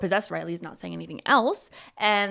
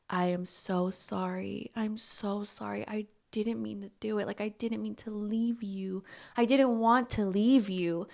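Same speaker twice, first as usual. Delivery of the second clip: mildly sorrowful, hushed pleading; tearful apology; 5 dB quieter than usual. Retold or imitated. Possessed Riley apologises to Mia, softly tearful. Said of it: "he starts kinda crying".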